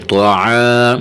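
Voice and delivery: طوا said full and thick, drawn out; heavy letter. Shown as a demonstration. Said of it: "حرف طوا کو موٹا کریں گے". (طوا کو موٹا کر کے)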